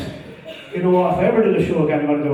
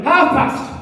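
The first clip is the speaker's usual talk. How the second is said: retold shout; 10 semitones higher, 5 dB louder than usual. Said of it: "he just shouted".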